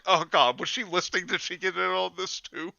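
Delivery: high alarmed gasp. Retold or imitated. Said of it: "I was like".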